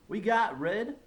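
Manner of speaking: put-on high, loud gleeful kids. A narrator's reading. Kids gloating about the principal, gleeful. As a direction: crow with delight.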